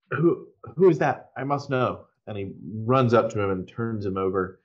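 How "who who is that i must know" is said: lightly raised shaman calling out. Acted. Shaman calls out over a dead elf, mildly raised voice. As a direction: call out to the body beside you, a touch higher. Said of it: "he kind of calls out".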